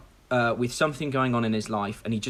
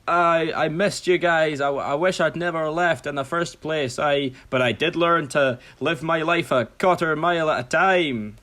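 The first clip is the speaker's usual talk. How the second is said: hammed-up heartfelt Scottish-style ogre; Shrek; 4 semitones higher than usual. Ogre back with his family, hammed-up heartfelt speech. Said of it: "and Shrek's like".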